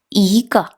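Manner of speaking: 이 climbing, then a light 거; second tone. Shown as a demonstration. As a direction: glide 이 upward and drop 거 in lightly. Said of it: "요렇게 읽어줍니다".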